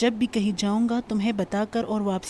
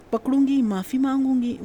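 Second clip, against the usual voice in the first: louder, higher mocking echo of mother's words; irritated daughter parroting mother, a touch raised; exasperated mimicking; 4 semitones higher, 4 dB louder than usual. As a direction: throw her words back at her, fed up. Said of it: "وہ جھنجھلائی اور زج بھی ہوئی".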